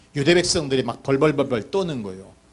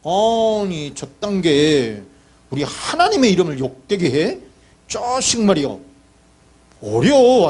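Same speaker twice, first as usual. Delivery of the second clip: acted indignation; 3 semitones higher than usual. Young David offended for God's name, acted indignation. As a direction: play young David bristling at an insult. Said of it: "어린 다윗이 우분이 생긴".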